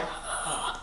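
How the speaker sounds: sharp audible huff imitating someone fuming; fuming breath. Shown as a demonstration. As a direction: demonstrate fuming with one breath. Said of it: "Fuming is like".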